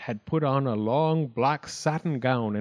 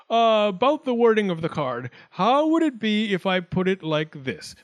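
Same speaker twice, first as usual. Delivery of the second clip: raised pitch, tentative proposal; taking courage; 7 semitones higher, 4 dB louder than usual. A narrator's reading. Wildcat proposes card wording to Ichiro, raised voice. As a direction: venture a suggestion with some officiousness. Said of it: "he seemed to take courage and went on".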